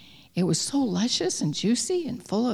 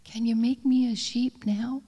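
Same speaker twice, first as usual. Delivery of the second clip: quivering ask; 4 semitones higher than usual. Acted. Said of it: "his lips quivered as he asked".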